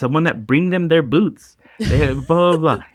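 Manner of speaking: put-on Spanish-accented voice. Speaker listing the perks some players get, in a put-on Spanish accent. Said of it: "it sounds like he has a Spanish accent".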